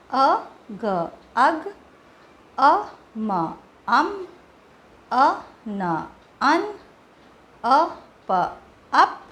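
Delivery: slow separated sounds then the blend; phonics blending demo. Shown as a demonstration. Teacher drilling short u blends, slow and separated. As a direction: sound out each letter. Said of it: "यू का sound होता है अ".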